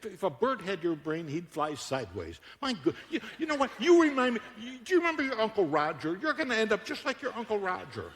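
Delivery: put-on high, exasperated parent berating a clumsy kid; scolding parent. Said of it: "What does the parent say to a kid?".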